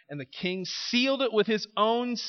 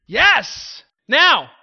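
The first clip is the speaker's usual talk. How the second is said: excited exclamation; 7 semitones higher, 12 dB louder than usual. Real, not acted. Preacher exclaims.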